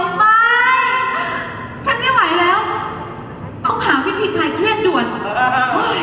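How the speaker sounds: stressed out. Acted. Wife breaks under stress.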